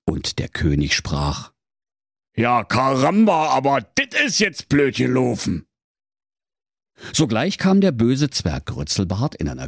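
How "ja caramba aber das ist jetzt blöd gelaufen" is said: lightly voiced king in Berlin dialect; a dismayed king, Berlin accent.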